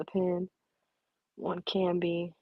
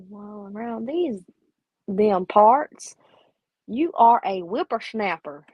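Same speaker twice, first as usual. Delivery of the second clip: hammed-up grumpy old-timer, louder on "damn parts"; old-timer drawl; 4 dB louder than usual. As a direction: play a cranky old cowboy scolding a youngster. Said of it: "There you go".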